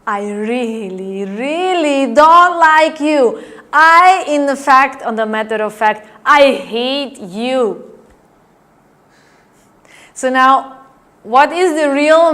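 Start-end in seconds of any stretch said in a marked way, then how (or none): 0.1-7.9 slow, hammed-up dislike; a touch of acted anger, slow; mock hostile. Shown as a demonstration. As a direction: lean into each word like you mean it. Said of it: "or you can say to the person".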